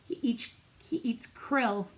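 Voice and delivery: slow secret whisper. Acted. Teacher whispering a fun fact to the class, slow whisper. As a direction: lean in and whisper it slowly.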